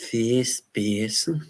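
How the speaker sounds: slow mock-Scouse jab; Liverpool accent. Streamer mocking someone in a Liverpool accent. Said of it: "The Liverpool accent".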